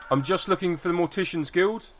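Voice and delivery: disarming, open-handed hello; friendly young man. Acted. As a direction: rookie Gaffer calling out to the old man, high and friendly. Gaffer asks directions politely.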